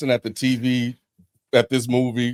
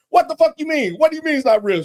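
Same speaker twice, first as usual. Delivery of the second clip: incredulous outburst; 13 semitones higher, faster than usual. Retold or imitated.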